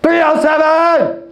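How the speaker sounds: high, drawn-out call of the unit number; mock yelling tenant. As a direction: bark out the number like an impatient tenant. Repeated louder tenant shout.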